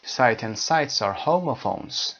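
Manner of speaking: slow textbook rule; slow reading. Shown as a demonstration. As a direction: spell the rule out slowly. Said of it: "reading rule slowly".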